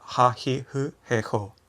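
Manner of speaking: "ha, hi, hu, he, ho" as separate aspirated syllables; Japanese H series. Shown as a demonstration. Teacher reciting the row for learners, Japanese H series. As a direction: recite "ha, hi, hu, he, ho", hu nearing f. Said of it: "un poco más F".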